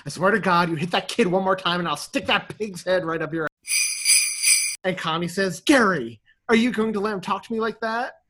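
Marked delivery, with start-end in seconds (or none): 0.1-4.8 snapping threat. Retold or imitated. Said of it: "Gus just snaps at her". 5.6-8.2 indignant whine. Retold or imitated. Connie indignant to husband.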